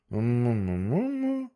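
hum. Acted. The manager hums before verse.

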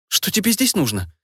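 militant, hissed through teeth; hostile through teeth. A narrator's reading. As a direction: spit it out, warlike. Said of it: "воинственно процедила я".

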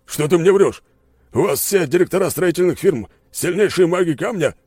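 loud, high, accusing voice; angry disbelief. Acted. General accuses the narrator of lying, loud and angry. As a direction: throw the lie back in his face.

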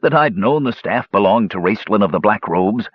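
lightly voiced dwarf, pitch often lifted; a hint of an eager storytelling dwarf; talkative dwarf gambler. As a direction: spin the gambling yarn as a dwarf. Dwarf continues his confession.

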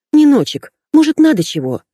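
high, loud sarcastic mimicry of a caring friend; mocking imitation. A narrator's reading. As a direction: mimic a sweet friend with scorn, pitched high. Mocking what friend should say. (высокая громкая издёвка над заботливым другом)

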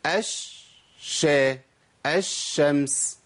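الشمس with the lam dropped and the شين doubled, ash-shams; slow demo of الشمس said ash-shams; assimilated lam, drawn out. Shown as a demonstration. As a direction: stretch the doubled شين in الش- then الشمس very slowly. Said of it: "اقول ايه؟".

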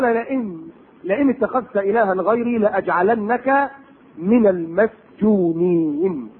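slow chanted verse; Quranic recitation. Acted. Preacher slowly recites Pharaoh's threat to Moses. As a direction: draw out the verse word by word.

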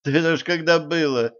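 ordinary delivery, nothing marked

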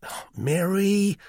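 high, drawn-out plaintive appeal; plaintive brother, pitched high. A narrator's reading. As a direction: whine her name slowly for help. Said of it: "he said plaintively".

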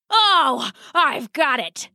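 a touch of excited inspiration; sudden idea. Acted. Father has an idea.

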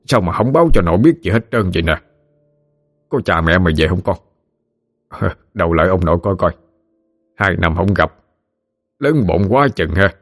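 a hint of a joyful grandpa; lightly voiced old grandfather. Grandfather hugging his grandson, overjoyed.

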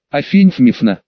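lisping, Афинь Фмифна with f and sh for s; slushy sh for s. A narrator's reading. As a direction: mumble Афинь Фмифна through broken teeth. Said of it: "шепелявым голосом еле-еле произнёс я".

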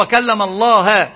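الله said as "Allaha", the object, slowed; distorted reading. Retold or imitated. Teacher shows students how the heretic read it, slowed. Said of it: "قرأها".

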